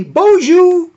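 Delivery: high, excited broadcaster impression, loud bonjours; Jack Armstrong. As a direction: crow it like a commentator faking French. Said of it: "he'll sometimes say".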